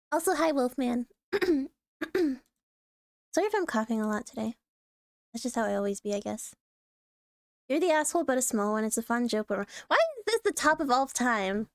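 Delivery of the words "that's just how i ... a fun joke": normal talking voice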